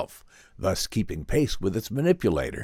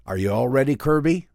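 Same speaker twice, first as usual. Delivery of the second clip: firm; 5 semitones higher, 4 dB louder than usual. A narrator's reading. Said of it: "The professor's voice was firm".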